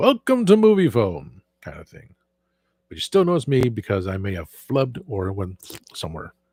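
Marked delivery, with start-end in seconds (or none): 0.0-1.4 high-pitched movie announcer. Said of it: "The voice that I don't use all the time".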